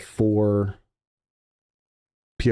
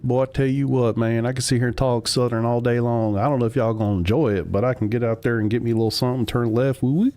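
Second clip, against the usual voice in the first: put-on Southern accent; 2 semitones higher than usual. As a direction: play a hint of a Southern good ol' boy, hooting at the end. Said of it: "can we get a Southern accent?".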